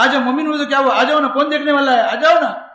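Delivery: laughing, coaxing invitation; woman tempting a believer, laughing; teasing laugh. Retold or imitated. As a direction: tempt him with a chuckle. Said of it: "کہا".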